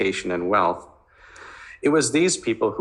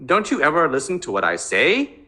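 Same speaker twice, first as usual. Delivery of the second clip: raised, higher angry voice; shouting; 7 semitones higher than usual. Acted. Teen son yelling at his mother about the party, raised and angry. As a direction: lash out at her, pitch climbing. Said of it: "he shouted".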